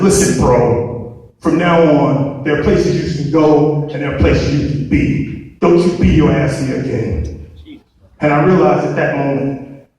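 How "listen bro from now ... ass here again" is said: cop's warning. Retold or imitated. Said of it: "and says".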